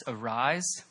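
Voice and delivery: soft, gentle arise; quiet call. Acted. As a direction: breathe the word like a gentle summons. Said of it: "your name being said by Jesus".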